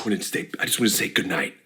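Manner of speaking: low, soft, intriguing narrator; mysterious Vsauce voice. Acted. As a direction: make it sound super intriguing. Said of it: "mysterious voice of Vsauce".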